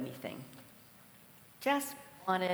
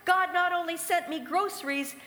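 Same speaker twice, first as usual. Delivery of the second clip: much higher and louder, bursting with glee; triumphant and laughing at the end; clapping and cheering victory; jubilant shout; 10 semitones higher, 7 dB louder than usual. Retold or imitated. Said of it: "jumping up and down and clapping her hands".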